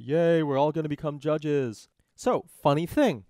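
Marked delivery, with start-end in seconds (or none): 0.0-1.9 lightly hammed-up group cheer; mock cheer. New judges celebrating their appointment, in a mock cheer.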